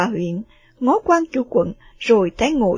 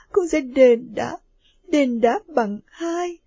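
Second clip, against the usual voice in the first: crying daughter; 2 semitones higher than usual. Acted. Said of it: "và khóc và nói".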